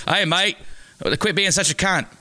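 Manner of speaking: a light Australian accent on the line; mock Australian accent. Shown as a demonstration. Showing a friend how to hold an Australian accent, lightly mock Australian. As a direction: toss off the line as a hammed-up Aussie. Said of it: "You just have to throw in some mates and cunts".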